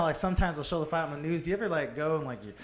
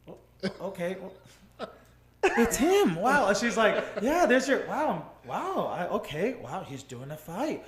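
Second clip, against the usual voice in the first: stunned disbelief; 3 semitones higher, slower than usual. Retold or imitated. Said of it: "she couldn't believe it".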